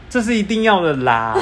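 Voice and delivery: wimpy, sheepish delivery with a laugh; timid voice. Retold or imitated. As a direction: say it like a chicken backing down. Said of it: "怎么听起来那么怂啊".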